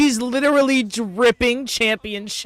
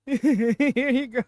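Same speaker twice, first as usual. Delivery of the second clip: Gunther; 5 semitones higher, much slower than usual. Retold or imitated. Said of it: "Gunther ... being like".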